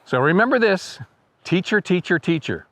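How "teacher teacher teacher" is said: "teacher, teacher, teacher" as an evenly repeated bird chant; "teacher" repeated in a steady songlike beat; birdsong stress pattern. Shown as a demonstration. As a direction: chant "teacher, teacher, teacher" rhythmically like an ovenbird. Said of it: "with the emphasis on the second syllable".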